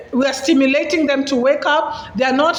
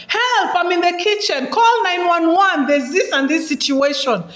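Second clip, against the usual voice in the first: higher call for help; calling with instructions; 4 semitones higher than usual. Shown as a demonstration. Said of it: "you can even give instruction".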